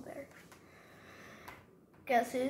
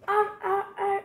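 loud, much higher ah ah; sea lion bark; 8 semitones higher, 5 dB louder than usual. Acted. Child reads the sea lion's line, high barking ahs. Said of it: "says the sea lion".

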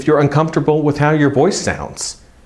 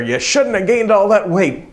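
higher-pitched mock reprimand; tough-love scolding; 7 semitones higher than usual. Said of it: "tough love approach saying".

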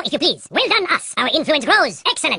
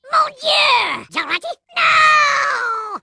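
disgusted shock; 12 semitones higher, much slower than usual. Acted. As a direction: recoil in horror at the splash. Splashed with Jarate.

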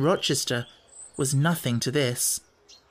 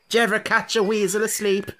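higher sly taunt; 7 semitones higher than usual. Acted. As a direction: tease the boy knowingly. Gypsies taunting.

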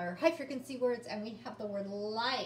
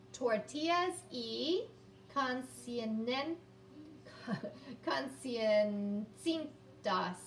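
careful slow reading; much slower than usual. Real, not acted. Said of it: "so bear with me".

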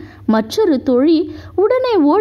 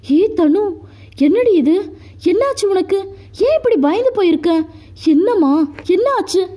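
a worried brother, higher and quick; anxious asking; 5 semitones higher than usual. Acted. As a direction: ask in rising worry, pressing for an answer. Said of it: "பதட்டமாக கேட்க". (பதட்டத்துடன் கேட்கும் அண்ணன்)

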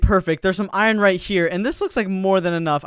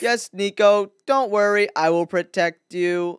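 stilted impostor posing as a friend; fake, deliberate reassurance; bad voice imitation. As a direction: badly imitate someone, reassuring stiffly. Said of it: "is he trying to imitate my voice".

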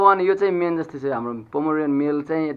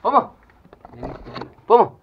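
calling out. Real, not acted. Owner calling her dog Pomo across the yard, raised call. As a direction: sing out his name to get his attention.

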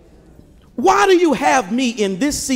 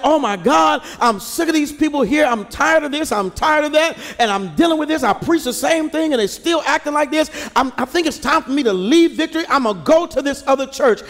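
mock complaining; 3 semitones higher than usual. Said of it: "and I said".

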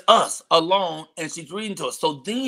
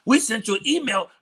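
mimicking friend; 8 semitones higher than usual. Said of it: "it's like".

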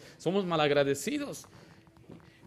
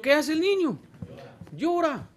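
mock crying child; 11 semitones higher than usual. Mimics teased child crying.

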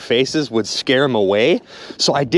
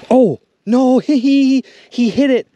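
higher, louder oh no with a laugh; laughing, raised exclaim; excited frustration; 8 semitones higher, 6 dB louder than usual. Real, not acted. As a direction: react loudly to the missed hit. Fish strikes, misses.

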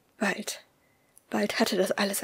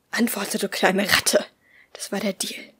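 malicious hiss. Acted. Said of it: "zischte er boshaft".

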